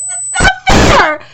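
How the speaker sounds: high, slow, loud wail; whiny protest. Real, not acted. Fan complaining about Hyoga, mock-whiny high wail. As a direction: moan it like a wronged fan.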